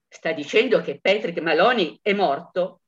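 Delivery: level, questioning policeman with a rise, "dicendo" stressed; the policeman checks what the caller said, composed; calm policeman. Acted. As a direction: ask "Sta dicendo che Patrick Maloney è morto?" in a steady official voice. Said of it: "Chi parla?".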